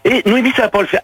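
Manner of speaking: indignant, working himself up; angry. Real, not acted. Father protesting to his daughter about an unknown man, angry.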